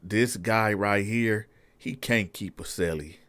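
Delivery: hushed aside to the captain; soft, fast confidential aside; sergeant pulling him aside. Retold or imitated. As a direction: keep it low, just between us. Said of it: "This the sergeant talking".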